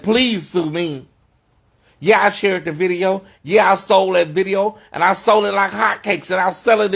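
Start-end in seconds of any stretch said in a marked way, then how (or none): 0.0-1.1 drawn-out mocking challenge, weight on please; slow taunting dare. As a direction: dare them slowly, word by word. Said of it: "That's why I said".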